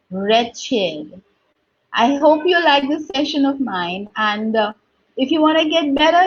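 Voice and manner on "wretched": wretched said wretch-id; correct wretched. Shown as a demonstration. Teacher repeating wretched for learners, wretch-id. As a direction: say Wretched with id ending.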